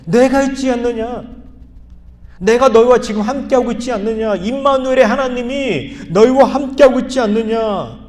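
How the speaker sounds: loud, earnest voice of Jesus; Jesus pleading. Acted. Jesus urging the disciples to trust him, loud and earnest. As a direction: press them hard with each question. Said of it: "예수님이 하시고자 하는 말이 뭐예요".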